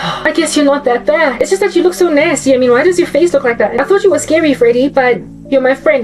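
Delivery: a hint of a dopey teenage girl; naive teen girl. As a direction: play a gullible girl warming to him. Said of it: "the chick is like".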